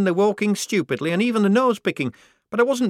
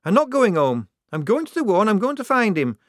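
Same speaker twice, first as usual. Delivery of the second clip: much higher, louder defiant outburst; rounding on her; 11 semitones higher, 5 dB louder than usual. Acted. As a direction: refuse fiercely, near tears. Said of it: "rounding on her".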